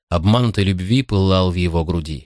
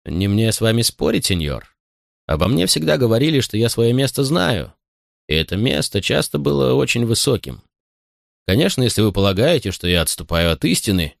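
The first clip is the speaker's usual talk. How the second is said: mocking. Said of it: "в которых таилась насмешка".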